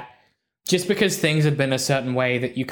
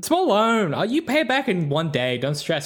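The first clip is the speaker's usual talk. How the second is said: high, slick salesman voice; a hint of a smooth-talking raccoon; sneaky salesman; 5 semitones higher than usual. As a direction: slip it in like a sly lender. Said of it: "sneaky little line he snuck in there".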